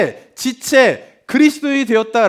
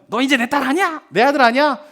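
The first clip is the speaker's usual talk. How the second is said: mildly raised mock parental outburst; angry parent; 3 semitones higher than usual. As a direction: imitate a parent disowning in anger. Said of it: "막 너무 화가 나면". (화난 부모를 살짝 흉내)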